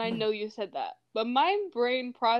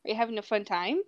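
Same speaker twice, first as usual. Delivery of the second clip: chatty put-on Minnesota accent. Shown as a demonstration. Friend showing off to the group, Minnesota accent. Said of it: "Minnesotian accent pretty well".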